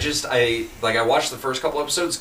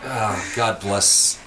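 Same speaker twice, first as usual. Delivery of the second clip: slow solemn blessing; 4 semitones lower, much slower than usual. Acted. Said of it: "slow blessing".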